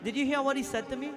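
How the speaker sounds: a proud priest crying out that he was mocked; indignant outcry. Brahmana protesting to the king, indignant shout.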